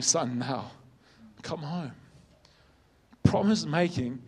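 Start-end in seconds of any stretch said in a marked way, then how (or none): 0.0-1.9 really choking up, voice dropping soft; emotional. Real, not acted. Preacher retelling his gran's hope of God calling her brother, emotional. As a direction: fight back real emotion, softly, haltingly. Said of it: "I don't know why I'm emotional there".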